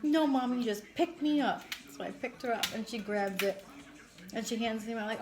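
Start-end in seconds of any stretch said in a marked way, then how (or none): 0.0-1.6 lightly voiced child, higher pitched; imitated little girl. Mom quoting her daughter asking for a lift, lightly imitated child. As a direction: play an insistent kid, a bit louder. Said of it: "She goes".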